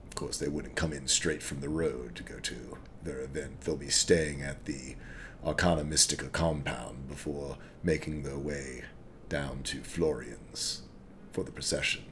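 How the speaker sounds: a hint of a wary, calculating half-orc; sly half-orc.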